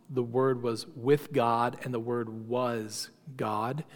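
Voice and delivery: slow, deliberate reading of the verse; the verse read right. Shown as a demonstration. Teacher reads the Gospel of John verse to his class, slow and reverent. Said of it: "So John one one says".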